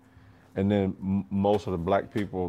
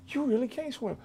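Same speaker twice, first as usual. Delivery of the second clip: drill instructor; 7 dB quieter than usual. Retold or imitated. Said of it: "and they go".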